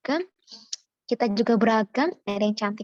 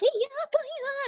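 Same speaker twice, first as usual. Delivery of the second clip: much higher, mock-curt questioning; a hint of an abrupt Batak-Makassar speaker, pitched up; imitating blunt Makassar speech; slower than usual. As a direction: play a local who sounds angry but isn't. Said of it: "Ngomong biasanya aja udah kayak orang marah".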